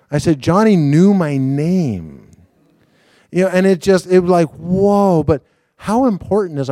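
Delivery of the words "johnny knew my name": slow amazement. Retold or imitated. Telling his wife, still amazed.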